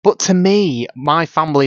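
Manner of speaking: ordinary talk, nothing marked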